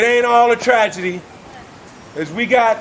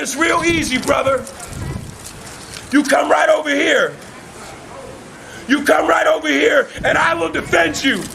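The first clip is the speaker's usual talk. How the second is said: shouted, pitched-up vow of protection; impassioned promise; 5 semitones higher than usual. Retold or imitated. Answering the redneck's plea, fervent shouted promise. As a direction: call him home with a fervent, preaching vow. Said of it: "And I said".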